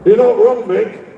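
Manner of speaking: crowd response. Shown as a demonstration. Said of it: "I want you to say this".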